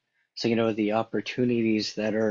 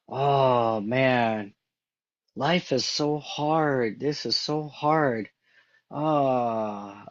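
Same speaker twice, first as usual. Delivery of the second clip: passionate lament; 3 semitones higher, slower than usual. Retold or imitated. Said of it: "you say that word with such passion".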